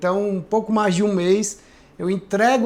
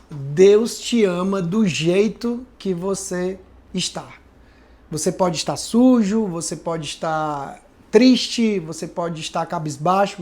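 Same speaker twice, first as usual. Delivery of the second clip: tender reassurance; slower than usual. Retold or imitated. Retelling Priscila's comforting words.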